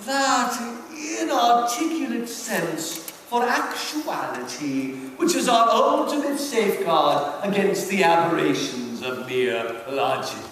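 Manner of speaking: reading a devil's letter aloud with theatrical relish; dramatic reading. Acted. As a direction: savour each line like a sly old demon uncle. Reads Screwtape letter aloud.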